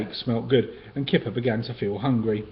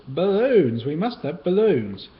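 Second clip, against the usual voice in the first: excited; 7 semitones higher, 5 dB louder, slower than usual. Acted. Kipper excited on his birthday.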